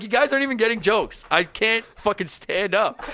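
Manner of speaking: lightly acted helpless complaint; exasperated protest. Drunk comic to crowd buying shots, exasperated protest.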